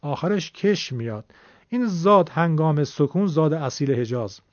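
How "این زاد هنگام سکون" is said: ضاد stretched with a cooing tail; authentic Hijazi zad. Shown as a demonstration. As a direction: draw out زاد like a dove's coo.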